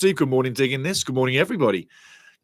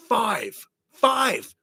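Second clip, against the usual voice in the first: higher each time, stunned repeat; disbelief; 10 semitones higher than usual. Real, not acted. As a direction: say it as if you can't believe the score.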